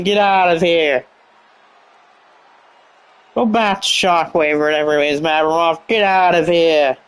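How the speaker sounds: a hint of Italian accent, telling him to get out. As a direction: shoo the rival away in a mock Italian accent. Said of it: "saying it in such an Italian accent".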